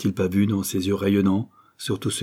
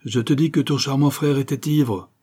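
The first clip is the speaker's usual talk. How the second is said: a husband's icy contempt, words chopped sharp; cold, cutting voice; 6 semitones higher, 4 dB louder than usual. A narrator's reading. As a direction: hammer each word out, cold and cutting. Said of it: "Sa voix froide, incisive, martelait les mots".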